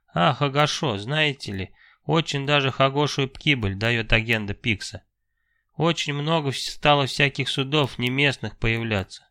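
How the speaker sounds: a lightly voiced chatty merchant who burrs his r; burring shopkeeper voice. Fima talks with a burr.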